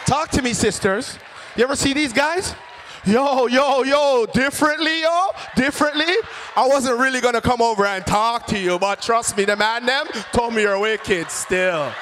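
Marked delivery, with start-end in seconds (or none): 3.0-11.9 lightly voiced street suitor, loud and eager; slangy suitor. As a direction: pitch it up, chatting someone up in slang.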